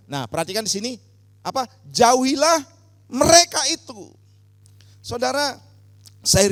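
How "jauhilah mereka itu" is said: loud, raised declamation; high, projected reading; emphatic scripture command. Real, not acted. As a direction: proclaim the verse's closing command forcefully. Finishes loud reading of verse.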